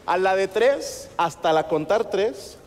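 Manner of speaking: slow, drawn-out setup for the count; deliberate slow lead-in. Shown as a demonstration. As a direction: stretch it out to build suspense. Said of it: "vamos a gritar".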